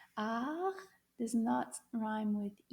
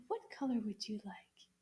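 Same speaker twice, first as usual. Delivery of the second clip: soft asking; 6 dB quieter than usual. Acted. Asking the puppet friends softly.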